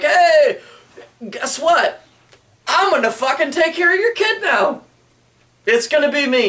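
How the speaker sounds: booming like a cartoon savior; hammed-up Valjean promising to raise the kid; goofy Valjean voice.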